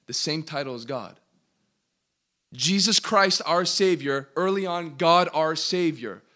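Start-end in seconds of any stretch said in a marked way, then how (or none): 2.5-6.2 loud, punched "Jesus Christ, our Savior" and "God, our Savior"; emphatic parallel. Real, not acted. Preacher shows both share the same title, emphatic parallel. Hammers the two matching titles.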